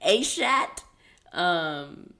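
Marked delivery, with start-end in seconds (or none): 0.0-0.8 "Ashat" sounded out high, as AY-shat with a hard final T; butchered name. Real, not acted. Reading out an unfamiliar handle, "Ashat" said AY-shat. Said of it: "I know that I'm butchering this".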